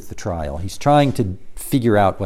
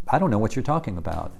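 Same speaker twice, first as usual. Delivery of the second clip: quick brush-off; 7 dB quieter, much faster than usual. Retold or imitated. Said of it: "The first time's just".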